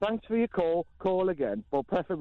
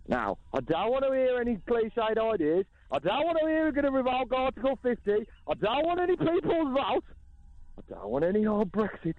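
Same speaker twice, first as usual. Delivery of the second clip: high-pitched tirade, climbing with each refusal; exasperated rant; 7 semitones higher than usual. Acted. Host banning callers' tired Brexit ideas, exasperated rant. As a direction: lay down the rules, pitch rising higher and higher.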